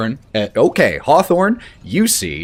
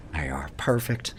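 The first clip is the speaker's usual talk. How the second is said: soft, lower approving murmur; tender approval; 4 semitones lower, 7 dB quieter, faster than usual. Acted. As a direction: settle the tie, tender. Danny NPC.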